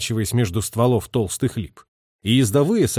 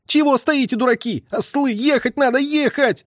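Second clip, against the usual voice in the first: much higher, tearful angry shout; desperate yelling; 13 semitones higher than usual. A narrator's reading. Messenger scolding drivers, desperate yell. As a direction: scold them near tears.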